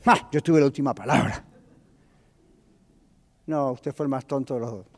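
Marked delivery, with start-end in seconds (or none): 0.1-1.5 punchy "ha!", then a mild boast; mock triumphant shouter. Shouter claiming the argument, mock triumphant. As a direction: lightly act the gloating last word. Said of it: "el que gritó dijo".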